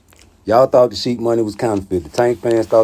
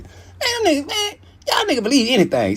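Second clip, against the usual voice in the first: much higher, laughing and fast; laughing disbelief. Real, not acted. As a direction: crack up at gullible fans. Laughing exasperation.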